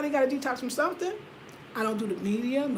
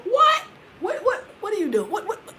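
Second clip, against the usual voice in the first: surprised; 9 semitones higher, 4 dB louder than usual. Retold or imitated. Mock surprised doctor.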